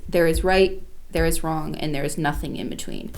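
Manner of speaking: stated as plain fact, falling away at the end; understated, measured certainty; Poirot, matter-of-fact. Retold or imitated. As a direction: quote it matter-of-factly, in even steps. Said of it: "Poirot very matter-of-factly just says".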